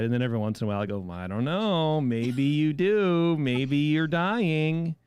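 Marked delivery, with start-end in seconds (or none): 1.1-4.9 very slow, drawn-out wondering; mock inner doubt. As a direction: stretch it out like a nagging inner voice.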